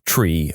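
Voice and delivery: "tree" said with a plain t, for three; radio pronunciation. Retold or imitated. Pilots mocking radio talk, "tree" pronounced with t for th. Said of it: "people who say".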